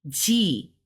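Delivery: G said with a T blended into it. Shown as a demonstration. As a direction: say "G" as T and G at once. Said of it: "like a T and a G at the same time".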